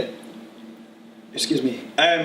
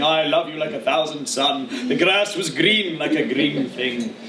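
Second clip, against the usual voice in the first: slow, drawn-out mock poetry reading; lightly hammed-up old-fashioned poet; older boring poet; slower than usual. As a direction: parody a dull nature poet, slowly. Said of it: "someone much older talking about boring things".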